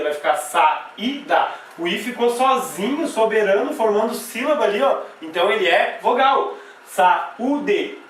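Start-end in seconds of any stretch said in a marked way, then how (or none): 0.3-1.5 slow "saída" split as sa, í, da; syllable by syllable. Shown as a demonstration. Teacher separating the word for students, syllable by syllable. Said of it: "eu vou separar a palavra saída". 6.9-8.0 "Saúde" split as sa, ú, de; syllable by syllable. Shown as a demonstration. Teacher showing the U standing alone, syllable by syllable. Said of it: "Vou separar o U".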